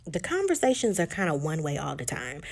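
mildly frustrated retold complaint. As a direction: air a grievance, lifting into exasperation at the end. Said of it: "Molly gets frustrated and says".

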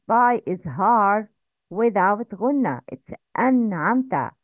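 an'amta with a clear, unnasalized noon. Shown as a demonstration. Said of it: "Please repeat after me the correct pronunciation".

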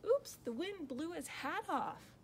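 put-on high, surprised child's cry; excited cry. A narrator's reading. Rosie watches Jack lose his hat, excited cry. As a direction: pipe up with a high oops. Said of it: "cried Rosie".

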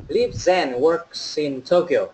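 very slow model, "works in" run together as "work-sin"; stretched-out teacher's "Lives and works in Tokyo"; linked model phrase. Shown as a demonstration. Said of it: "Ở đây chúng ta có lưu ý".

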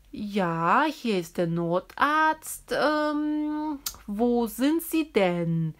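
emergency doctor answering the kindergarten's call; doctor on the phone. Pretend.

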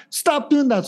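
a nervous owner scolding harder, voice jumping up; rising mock scold. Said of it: "human is like".

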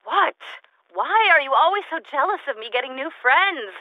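scolding her recorder for being jealous of her new friends; indignant scolding. Acted. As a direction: tell off a jealous partner.

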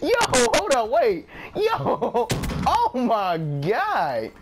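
words breaking into laughter; laughing. Real, not acted. Gamer cracking up at a play, laughing.

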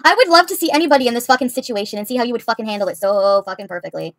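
angry rant. Real, not acted.

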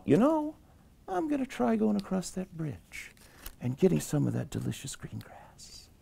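high, soft little-goat voice; little goat, hopeful. Acted. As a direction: think aloud as a small goat, high and soft.

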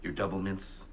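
low urgent whisper. Acted. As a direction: whisper the warning. Quiet warning to a partner.

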